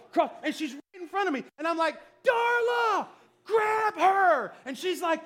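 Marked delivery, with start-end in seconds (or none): 2.2-4.5 loud, high yell to wife; panicked shouting. Retold or imitated. Husband to wife on the ride, frantic shouting. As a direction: scream the order over a wild ride.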